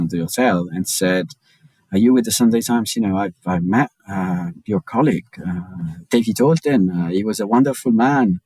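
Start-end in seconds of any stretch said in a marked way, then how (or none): 1.9-8.4 hint of a French accent. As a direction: imitate a French woman's English lightly. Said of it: "I'm making the accent now".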